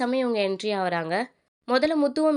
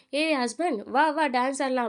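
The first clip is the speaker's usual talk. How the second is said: higher, drawn-out retold invitation; playful calling out; 4 semitones higher, slower than usual. Kanaka calling husband to dance, retold playful call. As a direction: imitate her calling him over to dance. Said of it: "அப்படின்னு சொல்லி கூப்பிடுறாங்க".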